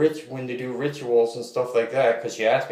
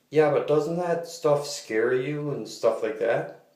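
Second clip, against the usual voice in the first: higher, slow worried woman's voice; imitating the worried cashier; 6 semitones higher, slower than usual. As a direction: draw it out like the anxious cashier. Cashier asks if it scares.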